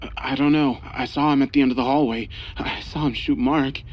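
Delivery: fast, hushed, stuttering panic; whisper-stammer it from hiding; husband hiding in the bathroom, afraid; stammering fear. Acted. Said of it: "His voice was trembling".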